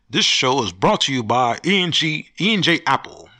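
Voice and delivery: sponsor announcer voice, hammed up; a quick fake sponsor plug; mock ad read. Podcaster to listeners, slipping in a mock sponsor read. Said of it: "I just had to do that little thing for myself".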